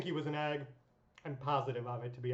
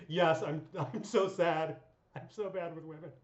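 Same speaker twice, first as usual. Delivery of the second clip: mock breakdown. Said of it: "had a breakdown".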